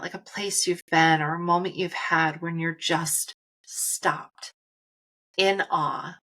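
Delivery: hushed whisper, drawn in. Acted. Guided visualization of a calm moment.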